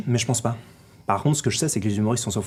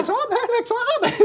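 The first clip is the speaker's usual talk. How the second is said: much higher, laughing put-on Arabic accent. Shown as a demonstration. Agent shows off the Arabic accent he claims Gad stole, laughing. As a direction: lay the Arabic accent on thick, giggling. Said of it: "mais vous le faites très bien".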